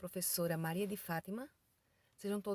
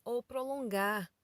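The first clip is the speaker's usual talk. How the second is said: prolongado; 2 semitones higher, slower than usual. Shown as a demonstration. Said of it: "falar a palavra pausadamente".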